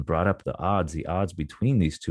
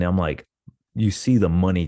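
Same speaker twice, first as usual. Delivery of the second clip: ordinary talk, nothing marked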